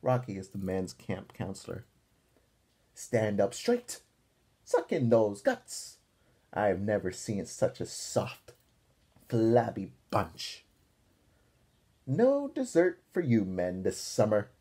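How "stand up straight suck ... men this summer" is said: slow, loud drill-sergeant commands. Acted. Counselor Rocky drilling the boys, slow and loud. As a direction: boss the flabby recruits around. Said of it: "barked Rocky".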